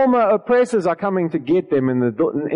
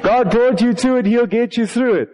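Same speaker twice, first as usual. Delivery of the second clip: laughing mock quote; 3 semitones higher than usual. Mocking a common saying, laughing.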